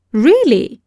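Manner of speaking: a startled, wondering really; surprised wonder. Acted. Galsworthy hears Phillips compared to Balzac, surprised. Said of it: "he cried in wonder".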